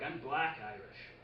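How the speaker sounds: slow, proud declaration of Black Irish; lightly voiced roommate, slow and pleased with himself. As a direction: roommate announcing it slowly and proudly. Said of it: "he'd be like".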